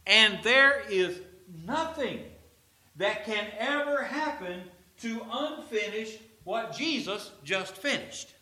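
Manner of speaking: high, loud, slow preacher's proclamation; preaching at full force. Acted. Preacher proclaiming to the congregation, full-force preaching. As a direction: lift the room with it, sermon peak.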